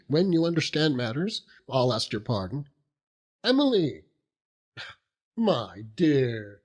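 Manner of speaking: a hint of a rough old fisherman, chuckling as he talks; lightly voiced seaman, proud and laughing; Mr. Peggotty. Proud uncle telling gentlemen about Emily, lightly voiced fisherman.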